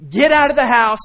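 loud urgent yell to get out; screaming warning. Pretend. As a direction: shout them out of a burning house. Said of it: "I'm screaming at you".

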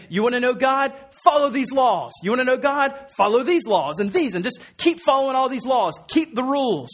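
hammed-up legalistic preaching; mock demanding religious leaders. Scribes voiced demanding law-keeping.

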